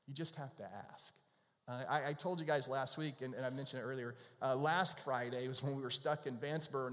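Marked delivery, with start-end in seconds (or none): 0.1-1.1 You just have to ask, quieter, leaning on "just"; softer repeat. Real, not acted. Pastor repeating the point gently, softer, on "just". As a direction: drop the voice and lean on "just".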